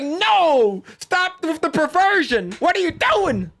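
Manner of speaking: high, whiny mock outrage; mocking Melanie Mac. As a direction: squeal like a scandalized prude. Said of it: "She's like".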